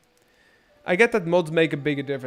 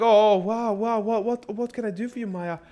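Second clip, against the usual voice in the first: mock eager reply; 6 semitones higher than usual. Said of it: "I'm like".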